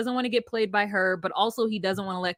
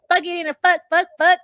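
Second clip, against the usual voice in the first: louder, higher, fast stream of curses; mock furious cursing; 7 semitones higher, 5 dB louder, faster than usual. Kayla cursing Kev out in a hammed-up fury. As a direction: spit out the curses in a hammed-up rage.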